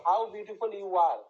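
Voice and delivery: "How beautiful you are", with the weight on "are"; stress on are. Shown as a demonstration. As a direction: lean on the last word "are". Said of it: "আরটাতে জোর দিচ্ছি". ("are"-এ জোর দিয়ে বলা)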